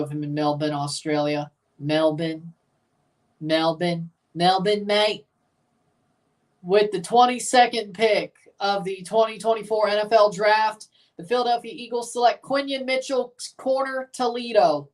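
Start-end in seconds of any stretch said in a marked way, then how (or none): 1.8-5.3 playful fake Australian accent; trying out an Australian accent. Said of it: "I could do an Australian accent". 6.6-14.9 raised draft-pick announcement; lightly put-on podium announcer.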